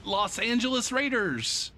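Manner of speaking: high, slow stadium announcer call. Retold or imitated. Mimicking the stadium announcer introducing each kid, announcer voice. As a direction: boom it out like the PA announcer. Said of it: "And then".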